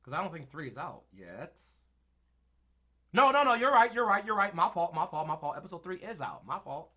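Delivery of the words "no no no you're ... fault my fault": high, laughing no no no; laughing apology. Real, not acted. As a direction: laugh it off while admitting fault. Corrected by chat, laughing.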